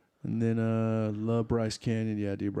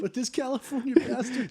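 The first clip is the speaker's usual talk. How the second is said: mock local grumble; 13 semitones higher than usual. Mocking locals' view of him.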